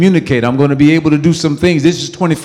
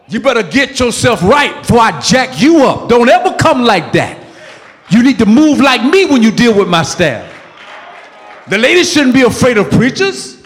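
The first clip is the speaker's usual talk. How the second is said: raised, forceful warning from the pulpit; preacher getting worked up over his staff; heated preaching; 6 semitones higher than usual. Real, not acted. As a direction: drive it home with real heat. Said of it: "I'm not angry, y'all".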